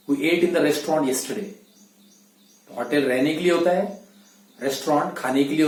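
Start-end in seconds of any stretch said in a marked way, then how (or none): 0.1-1.5 slow example sentence. Shown as a demonstration. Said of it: "teacher models example sentence slowly".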